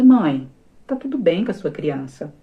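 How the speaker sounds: slow, unhurried reassuring question; calm doctor. Retold or imitated. Doctor reassuring the frightened mother, slow and calm. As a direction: play the calm doctor soothing a panicked mother. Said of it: "Ele tranquilo, todo pleno".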